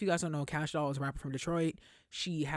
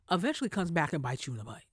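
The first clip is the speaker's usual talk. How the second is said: whispered aside; faster than usual. Real, not acted. Unvoiced aside warning.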